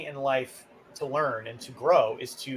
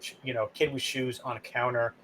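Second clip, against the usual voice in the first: dispassionate; 4 semitones lower, 3 dB quieter than usual. Pretend. Customer calmly telling a mother off, dispassionate. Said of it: "sort of be dispassionate".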